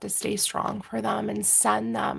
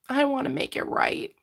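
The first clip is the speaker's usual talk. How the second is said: emotional; 5 semitones higher than usual. Real, not acted. Reader channeling a message, overcome with real emotion. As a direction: voice lifting high with emotion. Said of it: "Spirit's making me all emotional today".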